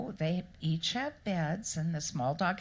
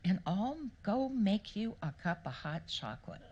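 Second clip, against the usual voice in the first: soothing husband. Retold or imitated. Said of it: "And he'd say".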